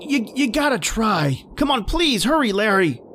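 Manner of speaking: frantic shout from the shore; urgent shouting. Acted. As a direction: drive him to swim for it.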